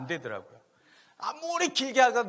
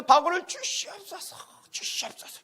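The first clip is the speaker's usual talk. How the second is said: high, slow pleading prayer; 12 semitones higher, 5 dB louder than usual. Retold or imitated. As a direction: drag out the plea in a raised voice. 신학교 기도 재현. (높고 느리게 간청하는 기도)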